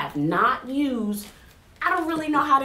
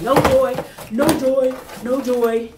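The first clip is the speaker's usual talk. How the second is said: mock lament; 5 dB louder than usual. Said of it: "I was like".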